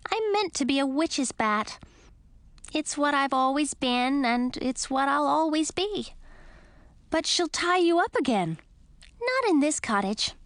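high, lively little bat. Acted. Lil the bat speaks.

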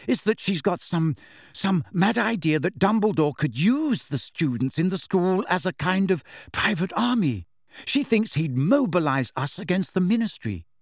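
lightly voiced know-it-all girl; earnest schoolgirl. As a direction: explain the mad theory urgently.

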